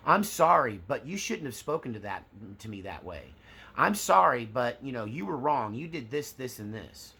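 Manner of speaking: sorry snapped out, then shift the blame; mock backhanded apology. Narcissist giving a fake apology, backhanded and defensive. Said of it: "A narcissist apology kinda looks like this".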